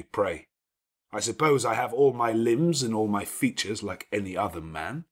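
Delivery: a lordly host giving orders at ease; gruff master of the house. Acted. Rochester retorts to Jane.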